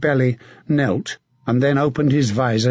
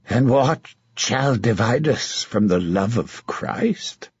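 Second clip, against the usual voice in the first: hoarse voice; slower than usual. Acted. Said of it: "in a hoarse voice".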